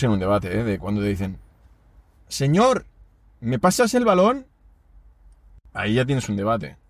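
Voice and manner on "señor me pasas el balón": put-on high, slow little kid asking politely; voz de niño. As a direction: ask sweetly like a small boy. Niño pide el balón en plaza. (voz aguda de niño pidiendo el balón)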